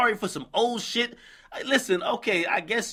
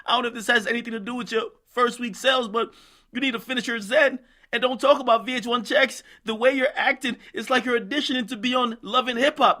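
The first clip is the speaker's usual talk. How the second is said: imitating Safari; 4 semitones higher than usual. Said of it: "Safari tried to respond by saying".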